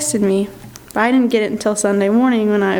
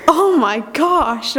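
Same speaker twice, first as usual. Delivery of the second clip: mock dismay; 3 semitones higher, much slower than usual. Retold reaction to her mistake.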